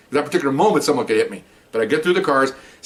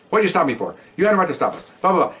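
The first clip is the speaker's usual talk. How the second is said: high, mock indignant woman's voice; imitating indignant woman; 7 semitones higher, faster than usual. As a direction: pitch it up like her protest. Woman arguing with police officers.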